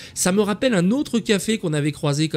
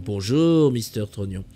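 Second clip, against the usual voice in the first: group's reply; 4 semitones lower than usual. Pretend. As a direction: murmur it back like the whole circle answering. Réunion des peluches anonymes, réponse du groupe. (réponse du groupe, plus grave et plus douce)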